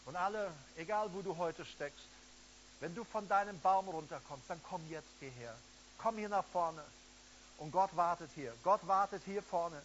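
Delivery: preacher calling the crowd forward; fervent altar call. Acted. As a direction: urge them to come to the front. Altar call, urging people forward.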